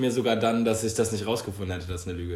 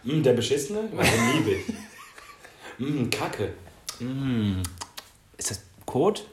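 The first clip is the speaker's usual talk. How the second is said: mock wine snob; slower than usual. Mocking a wine snob, laughing.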